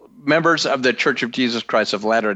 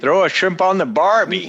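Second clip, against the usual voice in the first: mock Australian; 5 semitones higher than usual. Co-host slips into a mock Aussie accent. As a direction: play a cartoon Aussie for laughs. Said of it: "That's Australia, not England".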